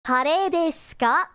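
slow teaching read of the question; slow model question. Shown as a demonstration. Teacher slowly models the Japanese question. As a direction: say it slowly for learners to copy. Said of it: "Here's another thing that I will learn you today".

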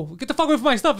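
put-on high-pitched old man scolding; lightly voiced old man shooing someone away; cranky old man. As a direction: imitate a worked-up old man. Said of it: "I'm like an old man".

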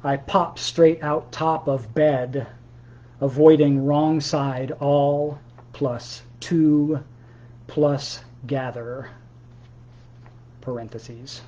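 slow, measured poem recital; poetry reading. Acted. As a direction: read it like a poem, each word weighed. Reads his own poem aloud.

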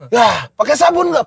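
put-on hint at a woman pressing the child for an answer; questioning mother. Mother checks on soap, lightly mimicked questioning. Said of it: "ibunya bilang".

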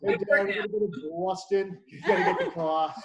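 loud, hammed-up Boston accent; son's Boston-like accent. Father imitating his son, in a loud mock Boston accent. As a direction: mimic a kid with broad Boston vowels, dropping the r in car. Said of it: "Why do you talk like that?".

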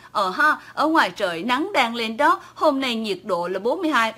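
a light Hong Kong accent on a mock weather report. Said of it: "Muốn Mã đọc bài theo tiếng của Hồng Kông".

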